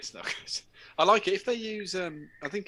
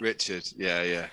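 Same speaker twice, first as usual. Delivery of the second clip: laughing quote; 6 semitones lower than usual. Retold or imitated. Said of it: "and I went".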